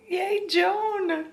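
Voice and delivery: high, cheering squeal. Real, not acted. Cheering for the character.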